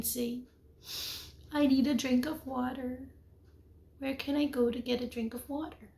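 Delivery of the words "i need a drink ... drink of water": asking nicely. Shown as a demonstration. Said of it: "You asked nicely".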